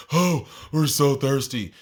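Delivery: put-on slow, drawn-out kid whine; mock the kids' dramatic thirst; whiny kids. Kids excusing their water rush, slow mock whine.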